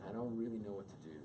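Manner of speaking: husband opening up, lightly voiced; husband admitting helplessness. Shown as a demonstration. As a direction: say "I don't really know what to do" as a simple confession to your wife. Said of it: "So it goes like this".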